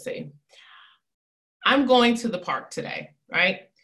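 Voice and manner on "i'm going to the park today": going stressed, falling at the end. Shown as a demonstration. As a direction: lean on going. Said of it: "I'm gonna emphasize it three different times".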